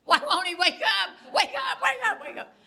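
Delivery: very high, loud, panicked wake-up calls; frantic yelling. Retold or imitated. Wife slapping the bed to wake sleeping husband, frantic shrieking. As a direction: shriek at him to wake, laughing through it.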